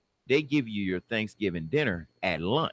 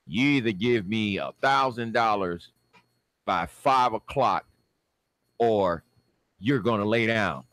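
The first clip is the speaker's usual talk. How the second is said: imitating the judge; 4 dB louder than usual. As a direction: lay down the terms in deliberate chunks. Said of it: "That's how he said it".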